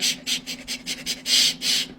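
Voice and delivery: whispered shh, shh; mother hushing her daughter in public; shushing. Retold or imitated. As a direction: hush her urgently in a whisper.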